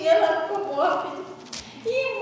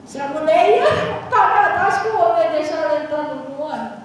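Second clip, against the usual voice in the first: laughing; 2 semitones lower, 9 dB louder than usual. Real, not acted.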